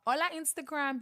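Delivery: loud, high, excited hello to followers; video greeting. Retold or imitated. Guest re-enacting her first video's opening, excited greeting. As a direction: call out brightly to an online audience.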